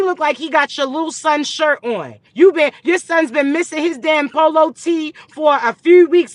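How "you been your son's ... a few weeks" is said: loud, high exasperated rant; shouting scold. Real, not acted. Telling a viewer off about her man, shouted. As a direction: yell it at her in disbelief.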